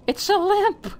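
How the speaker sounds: high, overjoyed exclamation; elated relief. Real, not acted. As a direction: cry out at a longed-for rescue. Finds a checkpoint lamp at last.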